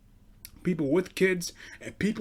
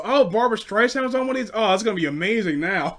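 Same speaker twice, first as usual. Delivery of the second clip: fast, higher mock excitement; sarcastic; 5 semitones higher, 4 dB louder, faster than usual. Sarcastic grandson to grandma about a singer, mock gushing. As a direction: gush with fake enthusiasm.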